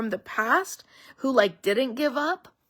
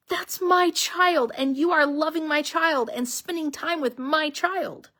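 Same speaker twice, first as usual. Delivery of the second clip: protective parent; 6 semitones higher than usual. Retold or imitated. Parents at drop-off, speaking as a doting protective parent. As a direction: voice the parent claiming their child. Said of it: "They're like".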